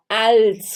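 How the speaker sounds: als with a clearly sounded L; tongue to the palate for the L in als. Shown as a demonstration. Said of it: "L tem som de L". (als com L bem pronunciado)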